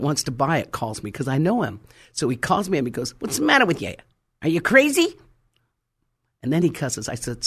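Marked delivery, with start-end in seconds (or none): 3.2-5.2 retold indignation. Retold angry caller confronts her.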